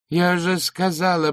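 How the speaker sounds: growing desperate insistence. Acted. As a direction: push it harder the second time. Repeated, now louder and higher.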